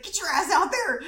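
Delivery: high-pitched hurrying command; mock urgent order. Courtney hurrying late performers on stage, mock urgent order.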